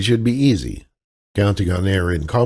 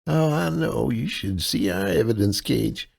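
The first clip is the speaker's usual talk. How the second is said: higher, helpless Midwestern damsel voice; damsel in distress; 3 semitones higher, 4 dB quieter than usual. Acted. Kaylee sweet-talks the clerk as a damsel in distress. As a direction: play the sweet, lost out-of-towner, pitched up. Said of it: "her damsel in distress persona".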